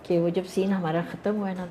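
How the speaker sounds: ordinary talk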